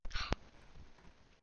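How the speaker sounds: loud, voiceless gasp; startled gasp. Real, not acted. Player startled by the game, loud gasp. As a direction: gasp sharply in fright.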